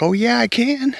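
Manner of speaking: high-pitched imitation of a defiant girlfriend; defiant comeback. Girlfriend answering that she can abort, imitated defiance. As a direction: mimic her retort, pitched well up.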